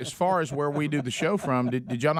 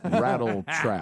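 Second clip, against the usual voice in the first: slow laughing repeat; 3 semitones lower, much slower than usual. Pretend.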